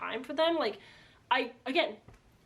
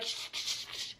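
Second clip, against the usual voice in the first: urgent unvoiced shushing; hushing; 8 dB quieter than usual. Friends hushing Rose so nobody overhears, in a whisper. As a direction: hiss them quiet, fast.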